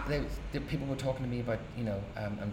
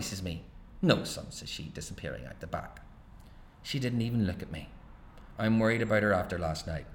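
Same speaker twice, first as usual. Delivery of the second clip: an author reading his own novel aloud; story narration. A narrator's reading. Author reading his novel to an audience, narration voice. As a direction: tell it steady and wry, pausing between beats.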